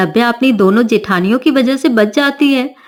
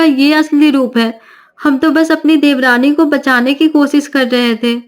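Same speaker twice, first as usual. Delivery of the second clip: defensive daughter-in-law; 3 semitones higher than usual. Acted.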